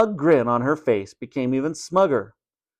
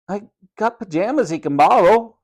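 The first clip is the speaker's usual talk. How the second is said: put-on Cockney boy; 8 semitones higher, 4 dB louder than usual. A narrator's reading. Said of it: "said George".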